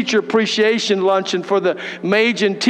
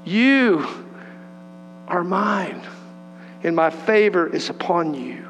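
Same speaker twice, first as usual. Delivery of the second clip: lower, slow, tender voice of the Father; voice of God; 5 semitones lower, 4 dB quieter than usual. Acted. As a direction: speak as a loving father to his child, unhurried. Voicing the Father's words.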